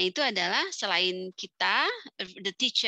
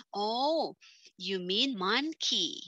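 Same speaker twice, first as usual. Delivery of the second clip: gentle correction; much slower than usual. Shown as a demonstration. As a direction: correct the student kindly, slowly. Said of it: "jika misalnya ada yang salah".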